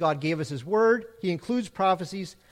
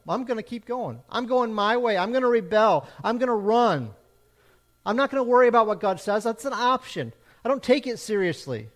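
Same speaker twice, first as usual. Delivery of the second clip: a hint of a defiant sinner, a bit louder; rebellious Jonah; 3 semitones higher, 3 dB louder than usual. Preacher voicing a sinner who runs from God, mildly defiant. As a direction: toss off the words like a stubborn rebel. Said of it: "Is it like Jonah?".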